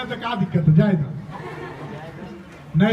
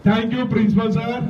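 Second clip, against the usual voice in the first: louder. Shown as a demonstration. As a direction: call it out with more force. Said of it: "जोर से बोलो।".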